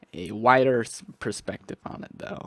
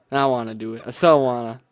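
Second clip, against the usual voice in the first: firm and louder; 7 dB louder, faster than usual. Real, not acted. Torn over claiming the village.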